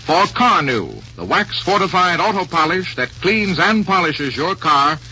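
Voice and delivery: brisk, bright sponsor read; old radio announcer. Acted. Vintage radio sponsor intro.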